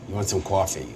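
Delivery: New York "coffee" with an AW vowel, said softly; Long Island accent. Shown as a demonstration. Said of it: "the archetype when people say coffee".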